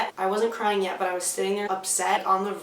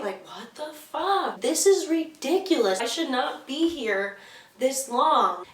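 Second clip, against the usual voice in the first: drawn-out, high-swinging disbelief; exasperated rant; 4 semitones higher, slower than usual. Retold or imitated. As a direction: retell it as an indignant inner rant. Acting out exasperation at the wait.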